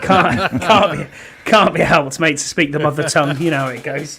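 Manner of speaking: hammed-up English accent. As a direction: lay on a cheeky English accent. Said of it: "You sound like you have an English accent now".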